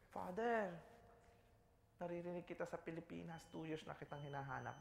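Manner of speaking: a hint of a tearful woman pleading; crying woman.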